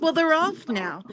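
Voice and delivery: mock the clerk's curt brush-off; a hint of snippy attitude; rude. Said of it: "really rudely".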